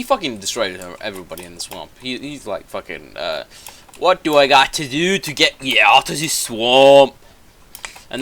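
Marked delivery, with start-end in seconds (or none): 4.0-7.1 loud, high mock-ogre bellow; exasperated ogre. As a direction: holler it in hammed-up exasperation. Retold angry ogre, swamp outburst.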